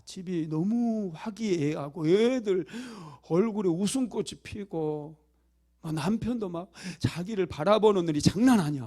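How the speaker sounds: usual speaking voice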